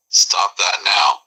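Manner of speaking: very slow stop that now; irritated. Acted. Brain-fried man repeating his order, very slow. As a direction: drag out now, final warning. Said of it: "on the verge of shutting down".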